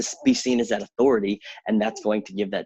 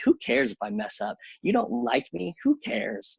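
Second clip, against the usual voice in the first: carefree inner voice; 11 semitones higher than usual. Retold or imitated. Her inner voice dismissing worry.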